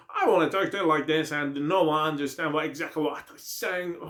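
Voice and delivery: slow, heavy Texas drawl; Texas accent. Shown as a demonstration. Teacher mimics a hard-to-follow Texas accent. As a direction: lay on a thick Texas accent. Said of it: "اینم یه لهجه است مال مثلاً این ور تگزاس".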